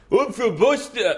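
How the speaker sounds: attempted Boston accent, high and slow. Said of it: "do it with the Boston accent".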